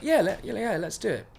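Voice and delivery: stumbling posh audition voice; put-on posh accent. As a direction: imitate your own fake posh eagerness. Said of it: "talking like I was posh".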